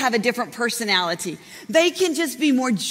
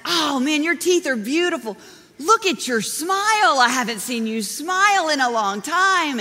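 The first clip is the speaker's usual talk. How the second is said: delighted praise; 3 semitones higher than usual. Retold or imitated. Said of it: "And I said".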